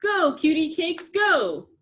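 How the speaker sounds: high, loud cheer; crowd shouting. A narrator's reading. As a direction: cheer them on together. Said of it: "the crowd shouted".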